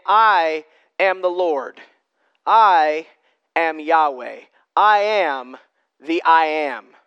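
slow and weighty, word by word; slow solemn declaration of the divine name; God's proclamation. Pretend. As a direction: let each word land, pausing between. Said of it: "that is God saying".

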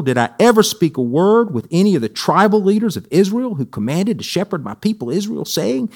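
expressive Bible reading aloud; lively, measured scripture read-aloud. A narrator's reading. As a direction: read the prophet's message to the congregation. Reads a Bible passage aloud.

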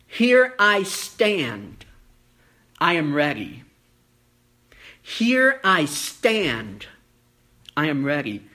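slow, weighty Here I stand; slow, solemn. Acted. Preacher declaring Moses' answer, slow and solemn. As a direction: let each word land slowly and firmly. Preacher repeats Hineni meaning.

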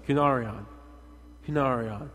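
"kunarion" as koo-NAR-ee-on, stressed in the middle; demonstrated Greek word. Shown as a demonstration. Preacher leading the congregation in repeating it, clearly demonstrated. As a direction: lead the group in saying "kunarion". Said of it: "Y'all say that with me".

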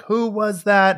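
sharp demanding question. Retold or imitated. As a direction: demand an answer from the child. Mother demanding answer from child.

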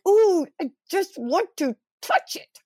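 put-on high, childlike squeal of longing; inner little girl. Host imagining her inner little girl seeing squirrels, childlike high squeal. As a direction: play your excited inner child. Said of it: "my little girl inside would be going".

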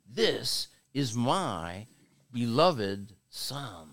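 voice of God. Retold or imitated. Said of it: "God tries to get in some words".

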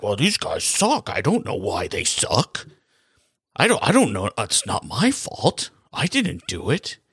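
lightly put-on voice of a clueless GM shrugging off blame; mock the manager dodging the blame, playing dumb; Bob Murray voice. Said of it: "That's my Bob, Bob Murray voice".

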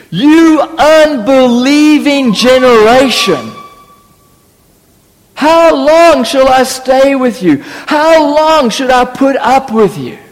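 slow, weighty, exasperated rebuke; annoyed Jesus. Retold or imitated. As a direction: scold the faithless crowd, slowly. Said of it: "sounds like Jesus is slightly annoyed".

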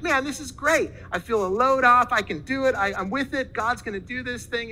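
high, eager imitation of a fired-up young man; retold gushing enthusiasm; all fired up. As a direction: act out his pumped relief, starting high and easing off. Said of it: "he's all fired up".

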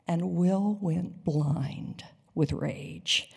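ordinary delivery

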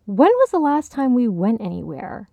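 pointed, insistent question; pointed and sharp. Acted. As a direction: press the question home. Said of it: "he asked pointedly".

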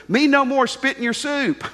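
lightly voiced Korean houseboy in broken English; a hint of a Korean teen's broken English. Korean houseboy asks the officers, lightly voiced broken English. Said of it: "He spoke broken English".

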